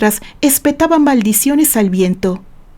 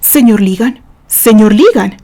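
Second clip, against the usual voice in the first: calling to order; 4 dB louder than usual. Acted. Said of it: "trató de llamar al hombre a la sensatez".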